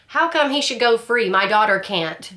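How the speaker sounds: half-acted outburst from the gallery; retold yell. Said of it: "she yells that out".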